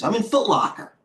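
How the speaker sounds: high, whiny can't-believe-it complaint; groaning that the Foot Locker trade went bad, pitched high. Real, not acted. Pitched-up disbelief at losing trade.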